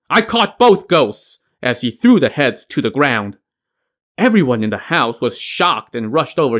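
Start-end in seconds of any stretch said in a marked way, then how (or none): 0.1-1.4 high, slow triumphant call; shouted announcement. A narrator's reading. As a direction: call it out to the whole house. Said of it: "and shouted".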